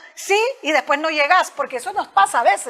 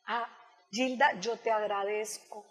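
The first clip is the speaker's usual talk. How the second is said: polite assertive refusal. Shown as a demonstration. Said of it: "¿Cómo es?".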